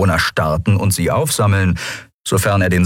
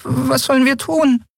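timid, high little voice; a boy's frightened, hushed question; anxious whisper. Acted. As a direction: barely dare to ask. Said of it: "ängstliche Stimme war kaum mehr als ein Wispern".

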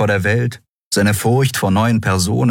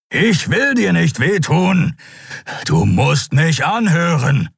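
high, drawn-out pleading; desperate plea; 12 semitones higher, slower than usual. Acted. Kero restraining Kai without wishing harm, desperate plea. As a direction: plead slowly and insistently.

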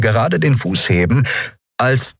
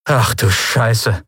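shocked; 4 semitones higher, slower than usual. A narrator's reading. Both shocked.

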